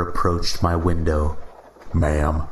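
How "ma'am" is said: slow Midwestern cop drawl; lightly drawled Midwestern officer. Acted. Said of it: "he said in a Midwestern drawl".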